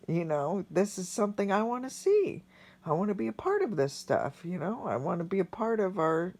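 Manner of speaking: choked up, voice rising in pitch at times; real emotion while talking about wanting to live; emotional. Real, not acted. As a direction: hold back tears as you speak. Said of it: "Sorry, this was really emotional".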